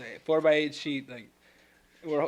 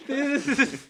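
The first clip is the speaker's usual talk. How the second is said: dog voice; 10 semitones higher, 3 dB louder than usual. Retold or imitated. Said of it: "he's just like".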